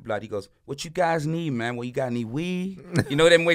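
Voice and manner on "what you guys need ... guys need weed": lightly voiced cool-cat dealer; Ramon. Local plug offering tourists a deal, lightly imitated cool-cat talk. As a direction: offer it casually, like a laid-back hustler. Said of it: "That's how he talks".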